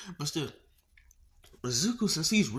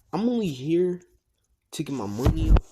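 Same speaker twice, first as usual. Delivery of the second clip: loud declaration; 3 semitones higher, 8 dB louder than usual. Acted. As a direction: belt out the motive. Izuku declares his motive.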